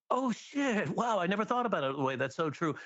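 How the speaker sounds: high, surprised gasp of realization; a high, quick "oh wow" of amazement; amazed audience reaction. Retold or imitated. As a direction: act out people suddenly getting it. And people go.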